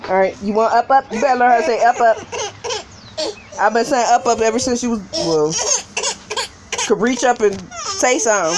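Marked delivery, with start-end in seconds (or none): 0.1-4.9 high sing-song coaxing. Real, not acted. Mother coaxing baby to say up.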